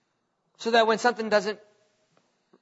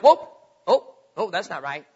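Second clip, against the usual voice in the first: startled then hushed; 3 semitones lower, 3 dB louder than usual. Retold or imitated. Preacher voicing a believer spotting the wrong thing, startled then hushed. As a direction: catch yourself noticing something off. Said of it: "you'll be like".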